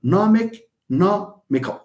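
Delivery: "nomic, nomical" each punched on NOM; matching stressed syllable. Shown as a demonstration. Teacher showing both endings match, "nomic, nomical" stressed on NOM. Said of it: "they are the same".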